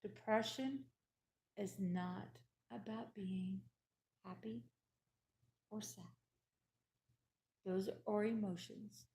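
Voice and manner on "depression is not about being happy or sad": quiet emphasis. Shown as a demonstration. To viewers, insisting depression isn't mood, hushed. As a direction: drop much softer and spaced out. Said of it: "Hear me".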